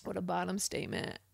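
sipping through a straw; talking between slurps of a drink; slurping. Real, not acted. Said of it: "sorry for slurping".

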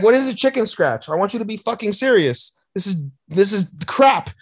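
high-pitched, indignant mock telling-off; exasperated scolding teacher. Teacher berating two pupils over drawings, mock-outraged scolding. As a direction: scold them in strained disbelief.

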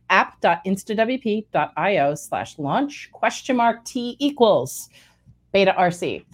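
slow, carefully spelled out; over enunciating. Shown as a demonstration. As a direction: read the link out slowly, each part distinct. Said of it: "I will say it slowly".

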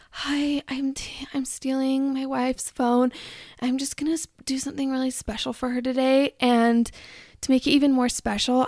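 lightly voiced earnest vlogger; mock TikTok husband. Husband telling followers about a surprise, lightly mocked sweetness. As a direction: mimic a self-satisfied sweet husband. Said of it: "these TikTok husbands are like".

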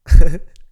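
a sudden loud burst of laughter. Real, not acted. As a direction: cackle out loud, caught off guard. Drunk host bursts out laughing.

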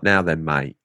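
lightly mimicking an American attempt at English slang; Americans' idea of an English accent; imitated cockney-style English accent; mock English accent. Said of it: "They normally try by trying to say words like".

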